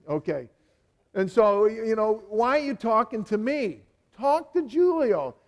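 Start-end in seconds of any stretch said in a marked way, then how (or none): 2.3-5.4 put-on another accent. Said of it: "That's another accent".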